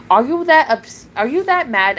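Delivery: real angry outburst. Real, not acted. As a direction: snap at the troll. Rant at troll.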